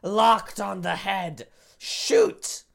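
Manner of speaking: high, tense sniper calling targets; gunman character voice. Acted. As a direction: call the shot like a cold assassin.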